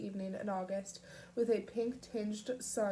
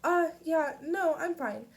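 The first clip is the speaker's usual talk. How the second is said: sniffly; 6 semitones higher, 6 dB louder than usual. A narrator's reading. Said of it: "she sniffed".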